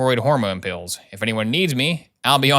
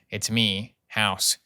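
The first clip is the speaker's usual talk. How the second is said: much softer, a hint of a timid teenage girl; mock shy diary voice; 4 semitones lower, 7 dB quieter, much slower than usual. House mocking a teen's diary to Shelley, lightly hushed. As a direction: hush it like a shy confession.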